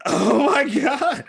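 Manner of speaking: loud, high wail of laughter; real helpless laughter. Real, not acted. Reacting to a friend's Jar Jar quote, helpless laughter. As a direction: stretch it out, nearly crying with laughter.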